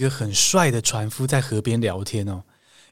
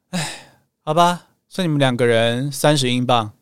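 slightly resigned. Retold or imitated. Ticket seller giving in on the price, mildly resigned. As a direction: give in with a reluctant little sigh. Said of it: "有一点无奈的语气说".

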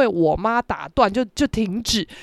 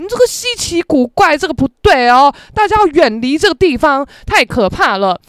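spooky mystery narrator; 7 semitones higher, 5 dB louder than usual. Pretend. Spooky mystery-show voice about elevator.

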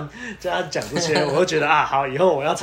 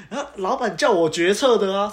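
laughing; 5 semitones higher, 4 dB louder than usual. Real, not acted. Laughing retelling of boss.

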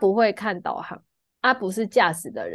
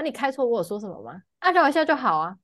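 angry retort; 3 semitones higher, faster than usual. Retold or imitated. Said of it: "我就很生气".

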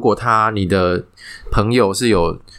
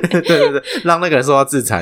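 mock-righteous, half laughing; lightly mocking that advice through laughter; laughing mockery; 9 semitones higher than usual. (笑着调侃)

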